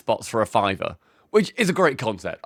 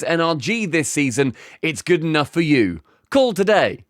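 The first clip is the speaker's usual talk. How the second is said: lightly performed commercial read. Acted. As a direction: deliver it as a sponsor pitch. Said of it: "do it in an ad read".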